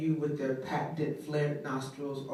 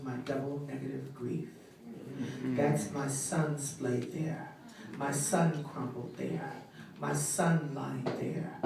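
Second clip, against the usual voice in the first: intense, measured poetry performance with swells and hushed drops; spoken word poem. Acted. Grieving mother addressing the listener, slam poetry recital.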